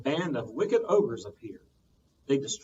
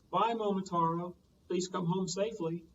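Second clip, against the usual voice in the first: lovingly; 5 semitones higher than usual. Acted. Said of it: "lovingly said".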